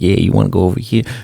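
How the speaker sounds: put-on Puerto Rican New York accent. Retelling asking a local worker about food, imitating his Puerto Rican New York accent. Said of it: "he had his little like Puerto Rican New York accent".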